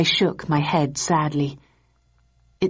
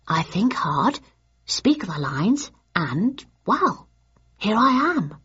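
a light guide's voice; 3 semitones higher, slower than usual. Acted. Nakajima explaining.

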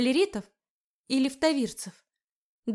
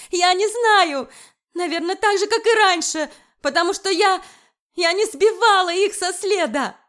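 much higher, louder desperate cry; desperate screaming; 8 semitones higher, 8 dB louder than usual. Acted. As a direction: scream the truth at him. Erika screams back at him.

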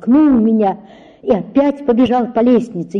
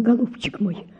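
trembling voice. Acted. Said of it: "начал он дрожащим голосом".

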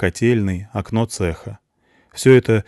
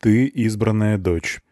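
slowed, deliberate, even; unhurried and steady; slow, measured speech; slower than usual. Acted. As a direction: executioner speaking slowly to his daughter, measured. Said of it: "палач говорит медленно".

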